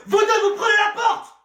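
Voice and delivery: loud, high shout; furious dismissal; angry order. Acted. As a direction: throw them out with a yell. Kicking them out.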